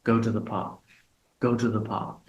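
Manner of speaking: teacher demos natural stress on "go". Shown as a demonstration. Teacher showing students where the stress falls in "go to the park". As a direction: GO stressed, rest of the phrase light. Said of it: "You can also think of the stress".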